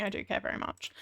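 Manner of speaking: soft sincere correction. Pretend. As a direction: take it back softly and earnestly. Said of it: "I'm kidding".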